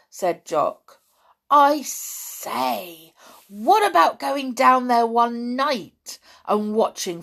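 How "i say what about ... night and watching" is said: higher, louder, drawn-out "I say" into a keen idea; excited proposal. A narrator's reading. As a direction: pitch it eagerly. Boy proposes a night adventure.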